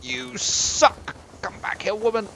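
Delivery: loud high call; high yelling after someone. Real, not acted. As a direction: shout after her. Yelling at departing companion.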